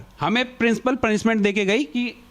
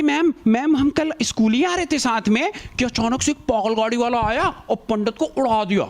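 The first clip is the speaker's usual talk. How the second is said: pleading fake excuse; 2 semitones higher than usual. Kids make a false excuse.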